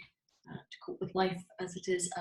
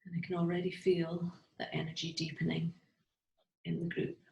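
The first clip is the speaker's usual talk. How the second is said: guided meditation. Real, not acted. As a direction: lead the group gently inward, phrase by phrase. Leads a guided heart visualization.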